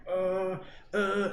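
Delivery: acted-out grunts of pain; mock pained groan. Acting out deepening stomach pain.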